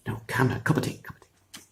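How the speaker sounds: soft unvoiced coaxing whisper; hushing whisper. Una calms the giant with tea, hushed whisper. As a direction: coax him quietly with tea.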